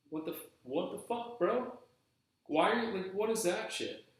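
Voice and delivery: high-pitched, incredulous protest; indignant outburst. Retold or imitated. Employee confronting the manager who dropped a bar on him, indignant.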